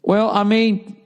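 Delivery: high falsetto mock quarrel; mock nagging partner. Partner challenging the other over an excuse, high mock indignation.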